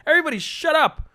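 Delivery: high, strained yell at the whole bus; acted shout. A woman on a bus silencing the voices, high yell.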